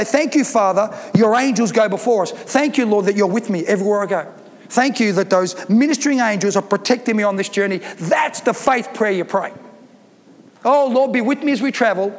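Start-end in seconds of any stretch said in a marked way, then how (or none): 0.0-7.8 faith prayer. Shown as a demonstration. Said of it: "We say". 10.6-12.1 mock weak prayer. Shown as a demonstration. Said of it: "Wasted prayer".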